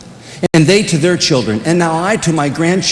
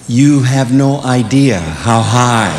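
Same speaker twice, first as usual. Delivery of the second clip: slow, dry understatement; injured dad quips to his son, slow and dry; dry father voice; 3 semitones lower, slower than usual. Retold or imitated. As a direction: draw it out, deadpan. Injured dad replying wryly.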